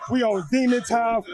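usual speaking voice

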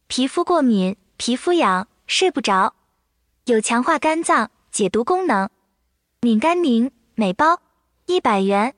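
AI voice. Acted. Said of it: "就请小小开始".

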